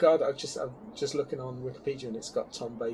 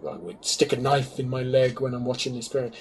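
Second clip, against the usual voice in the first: Tom Baker routine. Retold or imitated. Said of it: "he would go into the Tom routine".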